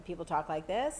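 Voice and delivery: every phrase ending on a rising question tune; upward intonation demo. Shown as a demonstration. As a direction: end "this" going up like a question. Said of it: "the upward intonation".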